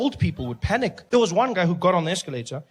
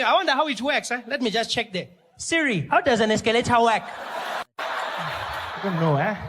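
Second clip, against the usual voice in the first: lightly voiced wide-eyed gawker, higher; amazed local; 4 semitones higher than usual. Wide-eyed mall-goer wowed by technology, a touch higher. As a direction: marvel at the new machine. Plays amazed escalator fan.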